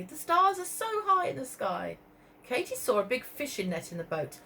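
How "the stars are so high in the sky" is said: worried. Acted. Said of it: "worried Marie".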